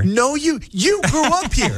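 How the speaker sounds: high-pitched teasing retort; exasperated protest. Real, not acted. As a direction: argue back at a co-host, pitch way up. Co-host arguing back in banter.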